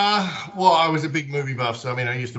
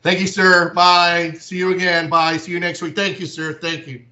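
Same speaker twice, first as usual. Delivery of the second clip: higher, mock-courteous American imitation; over-polite American; 6 semitones higher, 6 dB louder than usual. Shown as a demonstration. Australian mimicking an American's endless goodbyes, over-polite. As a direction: send up gushing American politeness, pitched up and louder at first. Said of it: "really politely".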